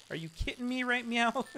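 high, playful right meow; cutesy Kiko meow. Retold or imitated. Streamer copying Kiko's catchphrase, cutesy meow twist. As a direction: twist now into a cat's meow. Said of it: "I'm starting to say things that Kiko says".

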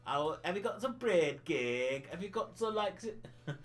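lightly imitated Yorkshire coworker; Yorkshire accent. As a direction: mimic a Yorkshire speaker's vowels. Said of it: "worker who's originally from Yorkshire".

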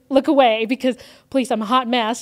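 embarrassed plea. Retold or imitated. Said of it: "I was like".

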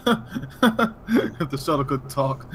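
laughing through the words; slow words breaking into laughter. Real, not acted. Repeating the joke while laughing.

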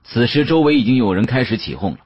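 plain reading voice

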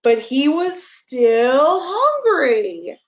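slow, drawn-out but he was still hungry; slow storybook refrain. Acted. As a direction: stretch out the refrain for the toddler. Reading a picture book to a child.

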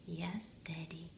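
hushed soft whisper. A narrator's reading. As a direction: whisper so he doesn't wake. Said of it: "whispered Big Bear".

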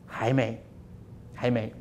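low, soft, unhurried no; calm quiet refusal. Acted. Potter quietly refuses the begging cup, low and soft.

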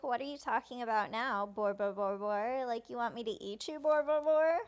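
lightly mocking question with mimicked stutter; taunting. Boris taunting Pierce about his stuttering, mildly mocking. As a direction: tease him by copying his stammer, rising at the end. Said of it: "taunting him about his stuttering".

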